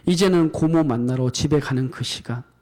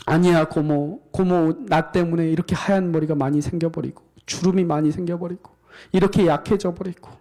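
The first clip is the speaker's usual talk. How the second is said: tearful niece; 2 semitones higher than usual. Acted. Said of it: "둘이 껴안고 엉엉엉 울기 시작합니다".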